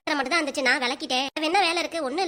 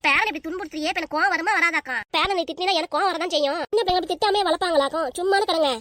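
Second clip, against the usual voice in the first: heated, slightly raised retorts; angry quarrel. Acted. Mother and grandmother quarrel over raising the child, angry. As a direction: argue back with mild anger.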